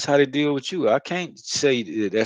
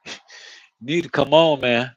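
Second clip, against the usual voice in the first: a touch louder, pushing her to hurry; mildly raised, coaxing come on; urging girlfriend; 4 dB louder than usual. Retold or imitated. Telling his woman to come on, lightly raised urging. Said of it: "I keep telling".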